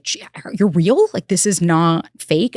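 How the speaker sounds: slow, drawn-out disbelief; stretched-out, wowed retelling; retold amazement. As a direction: act out marveling at someone unreal. Retold amazement at his beauty.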